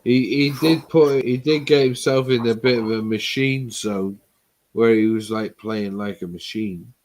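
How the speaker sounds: slurring words, tablets kicking in; thick-tongued, words running together; slurred speech. Real, not acted. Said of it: "You're slurring your words".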